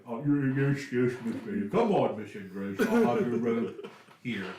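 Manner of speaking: lightly voiced servile butler; eager to please, a touch obsequious; fawning butler. Big butler Max fusses over Miss Grace, lightly fawning. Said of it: "It's like".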